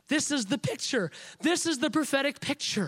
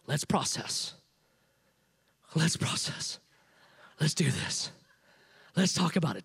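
low, hushed, mock-sympathetic friends, imitating; 7 semitones lower, 3 dB quieter than usual. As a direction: lower and softer, a sly coaxing murmur. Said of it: "They immediately come to her and go".

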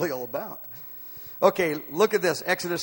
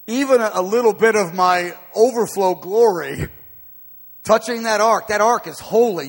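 God's proclamation; 6 semitones higher, 7 dB louder than usual. Acted. Preacher voices God on holiness.

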